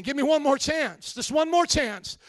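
voicing the damned pleading from hell; pleading cry. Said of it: "screaming out".

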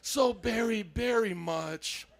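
slow, tender we love you; gentle, reassuring to a neighbor; tender encouragement. Shown as a demonstration. Pastor modeling a tender word for the neighbor. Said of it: "Look at your neighbor, say".

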